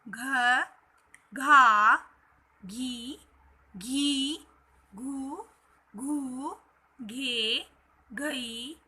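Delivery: "घ" series, separate syllables with held vowels; syllable recitation. Shown as a demonstration. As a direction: recite "घ" to "घह" one by one as a drill. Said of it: "इसकी ध्वनि कैसे आएगी". ("घ" से "घह" तक अलग-अलग खींचकर उच्चारण)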